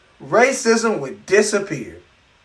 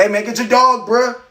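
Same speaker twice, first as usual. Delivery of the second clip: get your dog; 4 semitones higher than usual. Retold or imitated. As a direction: build from nervous to insistent. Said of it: "We're like".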